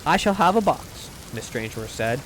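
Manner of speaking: measured, softly read storytelling; audiobook-style reading with light dialogue; story narration. A narrator's reading. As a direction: read it aloud like a genteel short story. Reads a short story aloud.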